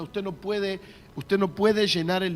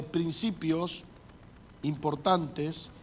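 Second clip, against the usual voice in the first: slow and soft; 4 semitones lower, 6 dB quieter, slower than usual. Real, not acted. Slow, quiet summing up.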